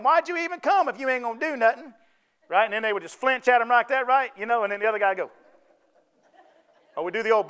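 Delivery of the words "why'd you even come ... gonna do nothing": a hint of a sneering schoolyard bully; lightly voiced bully taunting the scared kid; mock bully jeer. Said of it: "the old bully's on that side, and he's saying".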